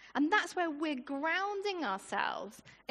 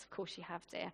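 much softer, lower and gentle; loving reassurance; 8 semitones lower, 10 dB quieter, faster than usual. Retold or imitated. Wife comforting her husband, soft and tender. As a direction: soothe him tenderly. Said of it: "his wife lovingly says".

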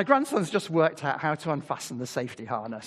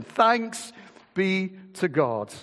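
higher, louder burst of thanks; joyful exclamation; 4 semitones higher, 4 dB louder, much slower than usual. Acted. Preacher reading Paul's answer, joyful high exclamation. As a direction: proclaim it with sudden joy.

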